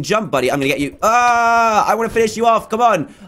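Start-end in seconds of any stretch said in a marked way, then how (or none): 1.0-1.9 drawn-out "ah" of effort; straining yell. Real, not acted. Going after an opponent in a game, straining yell. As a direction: let out a long, raised yell.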